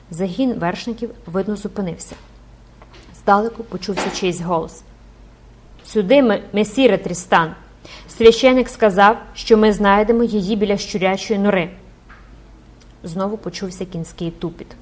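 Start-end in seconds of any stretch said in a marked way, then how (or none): 5.8-11.7 loud distant soldier's call. Acted. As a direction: shout to your commander across the street. Distant soldier calls to Tristan.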